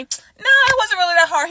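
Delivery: squeaky high retold reply; mock high reply. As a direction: pitch it way up as if brushing it off. Retelling her own reply to coworker.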